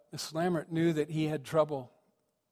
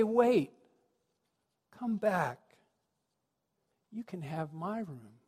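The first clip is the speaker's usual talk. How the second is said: tender requote; 2 semitones higher, slower than usual. Acted. Preacher recalling the boy's kind offer, tender and fading.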